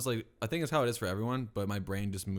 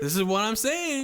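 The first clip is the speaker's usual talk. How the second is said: laughing; 12 semitones higher, 8 dB louder than usual. Real, not acted. Laughing triumph.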